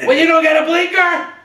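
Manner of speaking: very loud, high-pitched mock road-rage yell; full-throated high shouting, imitating a furious friend; imitated yelling. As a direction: holler like an irate driver out the window. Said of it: "started yelling".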